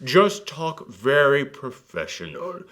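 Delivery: slow, mock-proper British; fake British accent. Mocking Americans who can't do British, stilted faux-British accent. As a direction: overdo a careful faux-British delivery. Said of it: "their idea of a British accent".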